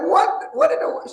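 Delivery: high, loud retold astonishment; mock disbelief. Acts out disbelief at friend's confession.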